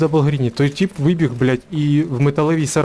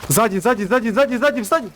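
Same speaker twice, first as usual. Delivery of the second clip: rising alarmed repeated callout; high, insistent alarm; urgent warning; 6 semitones higher than usual. Real, not acted. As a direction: warn the team urgently, pitch climbing. Warning teammates of enemy behind.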